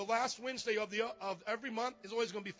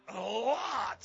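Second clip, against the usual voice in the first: "A lot" said louder and punched; stress on A LOT; 4 dB louder than usual. Shown as a demonstration. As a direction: hit "A lot" with emphasis. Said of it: "So I'm accenting the word a lot".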